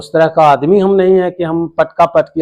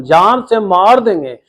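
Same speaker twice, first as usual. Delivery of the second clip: mildly raised, imitated threat; retold death threat; 5 semitones higher than usual. Victim quotes the land-grabber to a reporter, mildly threatening. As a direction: report the threat with some heat. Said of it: "बिल्कुल धमकी दे रहा है".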